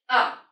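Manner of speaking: AH short, only going down; half third tone. Shown as a demonstration. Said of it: "first part".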